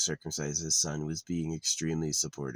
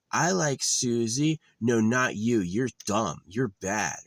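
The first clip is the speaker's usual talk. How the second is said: put-on much higher and louder, slow, a bratty little boy; mock baby voice; 6 semitones higher, 6 dB louder, slower than usual. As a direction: play a toddler showing off, drawn out. Imagined baby boy picking girls.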